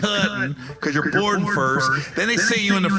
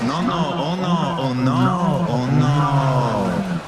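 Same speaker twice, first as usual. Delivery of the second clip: Spanish words in a mock Japanese accent; bow and thank in a hammed-up Japanese accent; 5 semitones lower, much slower than usual. Comic fumbling with a Japanese waiter in mock Japanese accent. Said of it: "speaking Spanish in a Japanese accent".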